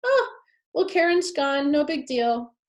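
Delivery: a casual, uncaring shrug of a voice; dismissive shrug. Retold or imitated. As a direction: brush it off like it's nothing. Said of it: "everyone was just like".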